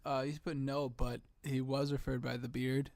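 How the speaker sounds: talking while crunching pretzels. Real, not acted. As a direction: speak through a mouthful of pretzels. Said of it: "you can hear me crunching on these pretzels".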